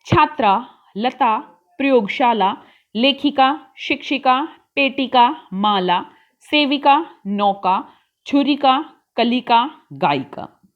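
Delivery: each word said cleanly for students to repeat; careful teacher's drill reading; model pronunciation. Shown as a demonstration. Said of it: "इनको हमें बोलना है इन शब्दों को".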